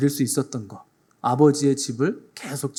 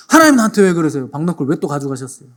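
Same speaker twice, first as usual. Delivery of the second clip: irritable complaint; 5 dB louder than usual. Retold or imitated. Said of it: "또 신경질을 내요".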